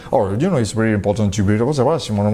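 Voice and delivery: fast, run-together American English. Retold or imitated. Imitating an American for French learners, fast American English. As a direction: rattle it off like an American native speaker. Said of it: "quand tu vas entendre un Américain dire".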